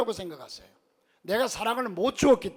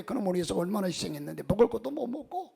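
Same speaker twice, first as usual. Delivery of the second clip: indignant parent. Retold or imitated. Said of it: "항변합니다".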